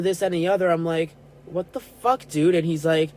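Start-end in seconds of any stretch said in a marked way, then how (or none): 1.5-2.5 incredulous. Retold or imitated. Outraged reply to cousin.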